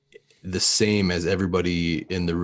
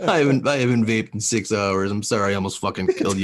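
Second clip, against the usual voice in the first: mock irritable rant; 3 semitones higher, 3 dB louder, faster than usual. Mock quote of grumpy stoner.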